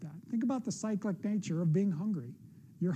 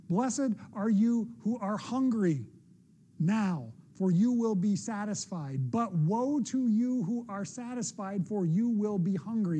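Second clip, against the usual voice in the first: scripture reading. Acted. Reads the beatitudes aloud.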